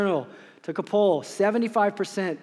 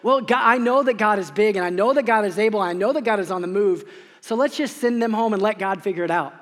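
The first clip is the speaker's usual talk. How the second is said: dismissive; 2 semitones higher, 4 dB louder, faster than usual. Retold or imitated. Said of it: "we can often be dismissive and go".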